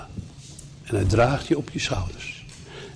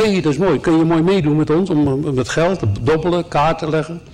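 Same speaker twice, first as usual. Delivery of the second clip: higher-pitched, lively welcome; eager invitation; 5 semitones higher than usual. Acted. Train gamblers invite a stranger to play, eagerly. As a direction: call the newcomer over to join in.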